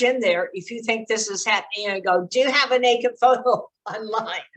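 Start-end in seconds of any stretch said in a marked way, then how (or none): 2.3-4.5 the wrong way: charge in and ask straight out; blunt accusing question. Shown as a demonstration. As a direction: blurt it out bluntly, half laughing. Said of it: "Okay, don't do that".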